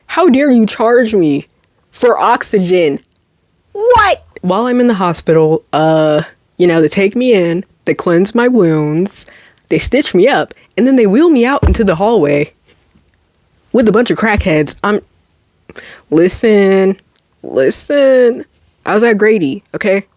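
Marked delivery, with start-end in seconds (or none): 3.7-4.2 much higher, sharp indignant what. Real, not acted. Indignant exclamation. 16.1-18.4 unvoiced, whispered listen. Real, not acted. Whispered aside.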